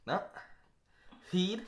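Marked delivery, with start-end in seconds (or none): 1.3-1.6 mouthguard in, words mushy; wearing a mouthguard. Real, not acted. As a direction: talk around a mouthguard. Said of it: "You have to put the mouth guard in".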